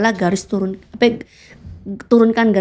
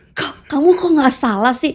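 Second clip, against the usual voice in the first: laughing, higher retold question; laughing quote; 5 semitones higher than usual. Quoting trainer friends, high and laughing. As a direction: giggle out the question. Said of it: "trainer friends quoted".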